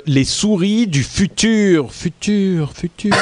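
high, slow echoing voice; fading echo on futur; echo effect. Pretend. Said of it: "super ton effet écho".

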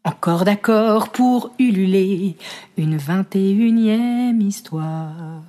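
slow, dramatic slam poem recital. Acted. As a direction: declaim each line like a stage poet. Recites her poem over music.

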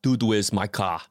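put-on light Arnold accent, slightly slow; relaxed attempt at an Austrian accent; understated Arnold-style accent; Arnold Schwarzenegger accent. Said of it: "our man Arnold would have done it".

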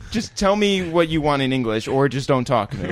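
high, impatient, fed-up pleading; exasperated Parisian. Retold or imitated. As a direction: brush off a struggling tourist. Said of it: "And they'd be like".

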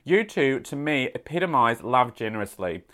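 letter read in a put-on Australian accent; playful Aussie accent. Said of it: "read this in my Australian accent".

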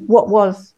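"what was" with the t in "what" as a glottal stop. Shown as a demonstration. Linguist demonstrating Prince Harry's habit, glottal-stopped "what was". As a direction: cut off the t of "what" in the throat in "what was". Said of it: "is sometimes a glottal stop".

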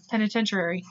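"Penitentiary" ending in "-sher-airy"; extra vowels. Real, not acted. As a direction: softly say "Penitentiary" with an added syllable near the end. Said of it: "wanting to add more vowels".

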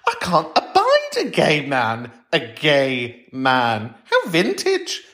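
sneering mock horror; camp disdain. Mocking dull gays, camp sneer.

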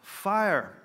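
loud, high mock cry of alarm; retold yell. Someone yelling in a crowded service, imitated loud cry. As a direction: call it out suddenly. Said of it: "When someone yelled".

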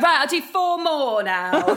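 loud, slow and eager; loud, keen declaration after a change of heart. Retold or imitated. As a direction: announce it eagerly, drawing it out. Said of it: "And then I'd be like".

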